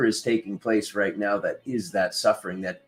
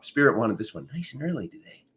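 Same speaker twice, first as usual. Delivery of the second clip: just woke up; faster than usual. Real, not acted. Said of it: "You can hear that I just woke up".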